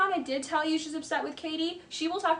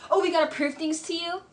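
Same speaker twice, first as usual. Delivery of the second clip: mock Sandoval; 5 semitones higher than usual. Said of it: "Sandoval's like".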